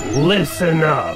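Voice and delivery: eerie put-on voice, low and creepy. Creator explaining the pattern interrupt in his video, in a creepy voice. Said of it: "[Creepy Voice]".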